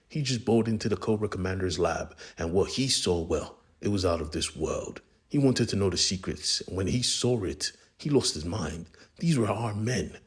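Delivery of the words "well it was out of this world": usual speaking voice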